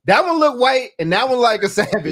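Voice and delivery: imitating open, out-loud table gossip; not whispering. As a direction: say it out loud, mock-brazen, no attempt to hush. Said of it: "they weren't whispering".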